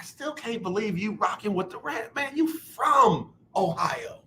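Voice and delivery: slow, drawn-out disbelief. Real, not acted. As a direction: stretch it out, can't believe him. Host pleads in disbelief.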